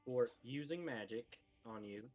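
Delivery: slow, dutiful repeat-after-me; slow, grudging repetition; reluctant recited apology. Acted. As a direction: recite the forced apology slowly.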